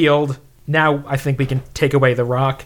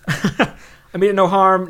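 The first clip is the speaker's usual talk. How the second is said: slow, gentle reassurance; slow soothing; 3 semitones higher, slower than usual. Acted. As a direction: ease it out slowly to calm it. Slow retake after a laugh.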